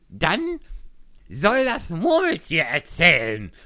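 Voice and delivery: loud, high joint call; both shout the suggestion. Acted. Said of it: "riefen beide". (laut gerufen)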